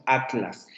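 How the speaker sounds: "atlas" with tl joined, a-tlas; pronunciación nuestra a-tlas. Shown as a demonstration. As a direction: say "atlas" keeping t and l in the same syllable. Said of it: "nosotros pronunciamos". ("atlas" con la tl junta, como a-tlas)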